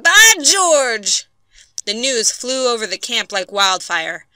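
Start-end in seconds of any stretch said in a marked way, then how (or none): 0.0-1.3 high, loud astonished repeat; amazed exclamation. A narrator's reading. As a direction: cry it again in disbelief. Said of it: "he said".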